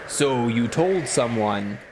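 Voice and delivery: slow, drawn-out spooky voice; eerie, stretched-out demonic voice; scary voice. Acted. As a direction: say it slowly like a menacing phantom. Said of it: "It was a very scary voice".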